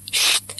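a short sharp shush. Acted. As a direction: hush him with a quick "Șt". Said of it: "făcu Snops".

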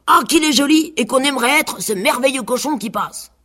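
high, whiny pig voice; vain pig. A narrator's reading. Pig refusing his mash and demanding the seed, high and vain.

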